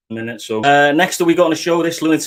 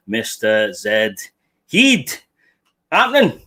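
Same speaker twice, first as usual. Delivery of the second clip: announcer intro; 2 semitones lower, slower than usual. Real, not acted. Host introducing his first guest, announcer hype. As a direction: call the guest in like a ring announcer.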